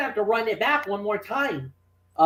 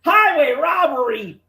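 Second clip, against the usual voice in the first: higher, hammed-up indignant shout; outraged cry; 5 semitones higher, 4 dB louder than usual. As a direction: cry foul like a ringside commentator. Acting out outraged commentary.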